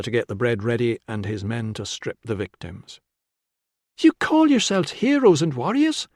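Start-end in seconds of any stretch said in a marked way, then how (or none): 4.0-6.1 loud, high, scornful shout; shouted challenge. A narrator's reading. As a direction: shout a challenge across the room. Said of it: "Tilla shouted from the shadows".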